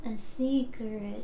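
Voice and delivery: slow breathy whisper; whispering a secret. Pretend. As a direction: lean in and whisper slowly.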